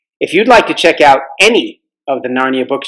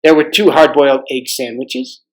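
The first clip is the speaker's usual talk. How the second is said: story narration. A narrator's reading.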